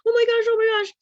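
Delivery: high, loud giggling surprise; startled laughter. Retold or imitated. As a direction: laugh helplessly at someone falling. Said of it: "startled them with something like".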